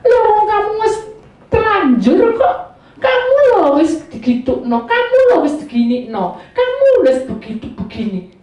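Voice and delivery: acted taunting, high swoops on each jab; mocking. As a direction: jeer like a scornful onlooker. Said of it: "kita ditertawakan dunia".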